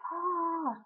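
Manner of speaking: high, drawn-out "ah"; re-enacted yell at reduced volume; imitated frustrated yell. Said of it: "I, like, yelled at her like that".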